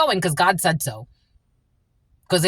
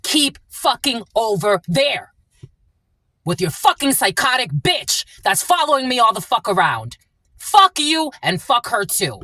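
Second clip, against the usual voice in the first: raised, cursing at the ex; angry rant; 5 semitones higher than usual. Real, not acted. Telling off the ex and his new partner, angry. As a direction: spit it out at them, heated.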